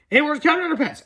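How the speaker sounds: character calling out. A narrator's reading. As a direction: call out for a missing friend. Story character calls for missing hero.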